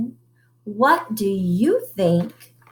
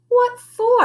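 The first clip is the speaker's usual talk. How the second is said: high, loud what for; mama demands an answer, pitched high; sharp question; 14 semitones higher, 5 dB louder than usual. Acted. Mama asks the sisters sharply, high and loud. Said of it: "asked Mama".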